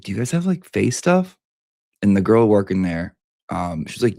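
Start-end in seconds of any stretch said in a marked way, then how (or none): 0.0-1.4 asking the clerk. Retold or imitated. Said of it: "I'm like".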